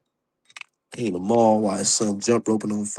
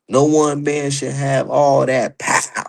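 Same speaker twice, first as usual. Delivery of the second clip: dramatic movie quote; slower than usual. Acted. Quoting a movie line dramatically.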